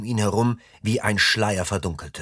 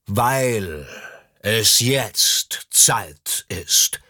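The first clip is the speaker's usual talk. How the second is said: urgent; much slower than usual. A narrator's reading. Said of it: "wiederholte er drängend".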